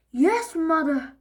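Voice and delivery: dragging it out through gritted teeth; weary yes mother. Acted. Dad sighing at his nagging mother. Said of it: "said Dad".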